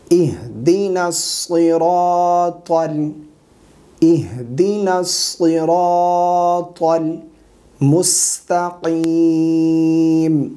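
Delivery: slow, sustained chanting; measured tajweed teaching recitation; Quran recitation. Shown as a demonstration. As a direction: recite with long drawn-out vowels.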